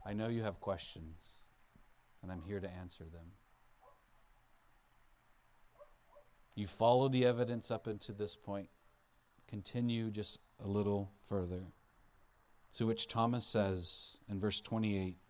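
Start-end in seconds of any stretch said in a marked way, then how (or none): 0.0-11.7 tender and loving. Acted. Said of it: "in a very tender and loving way".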